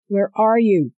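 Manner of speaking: high, loud anxious question; worried robot friend. Acted. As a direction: call out anxiously. Iko's worried call.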